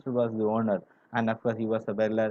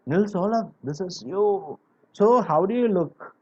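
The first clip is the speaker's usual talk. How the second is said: higher-pitched imitation of a shouted greeting; mock shout; 6 semitones higher, 3 dB louder than usual. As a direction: act out hailing someone, pitch lifted. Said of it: "shouted at them like".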